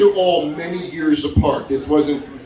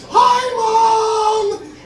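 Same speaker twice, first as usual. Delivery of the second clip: high, loud overeager greeting; too-cheerful drunk hello; 4 dB louder than usual. Retold or imitated. Drunk son greets his mom, overly loud and cheerful. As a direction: shout it bright to seem sober.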